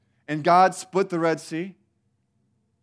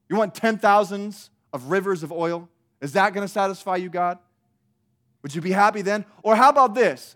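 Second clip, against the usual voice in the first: snarky Israel; 3 semitones higher, 6 dB louder than usual. Retold or imitated. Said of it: "just being ridiculous".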